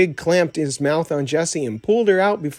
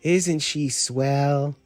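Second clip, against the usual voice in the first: slow, dreamy admiring voice; admiring sigh; much slower than usual. Acted. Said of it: "sighed with obvious admiration".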